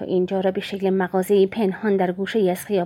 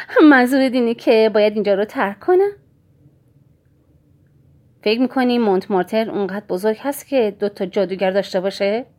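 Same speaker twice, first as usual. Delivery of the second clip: 1 mocking scorn; 5 dB louder than usual. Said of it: "خندهٔ استهزاآمیز و عصبی سر داد".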